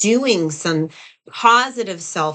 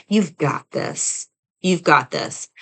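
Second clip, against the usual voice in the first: encouraging inner coach; slower than usual. Retold or imitated. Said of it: "like you have your own inner coach that is going to tell you".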